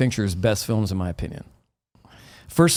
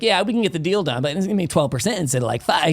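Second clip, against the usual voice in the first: higher, faster businessman on the phone; pushy phone guy; 4 semitones higher than usual. Retold or imitated. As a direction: rattle off a deal like a sleazy agent. Voicing phone guy in story.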